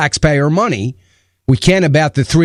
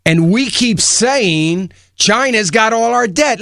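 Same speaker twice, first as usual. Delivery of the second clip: normal talking voice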